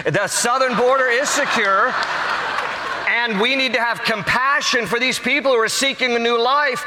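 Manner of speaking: a light send-up of a calm denial; mock Democrats. Preacher lightly mocking Democrats, insistent denial. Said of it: "the Democrats are like".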